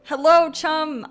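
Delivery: drawn-out high, loud hello; loud, slow sing-song hello to a chat viewer; sing-song greeting. Real, not acted. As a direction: greet the viewer brightly and slowly.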